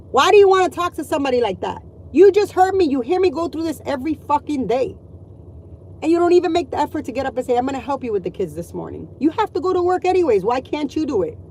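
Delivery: angry retort. Retold or imitated. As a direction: let the husband have it, fast and heated. Confronting husband, retold comeback.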